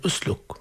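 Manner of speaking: "أسلك" starting on a clear glottal u; initial hamza pronounced. Shown as a demonstration. Teacher shows starting on the word, hamza sounded in "أسلك". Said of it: "إذا بدأنا بهمزات الوصل الكرام ننطقها".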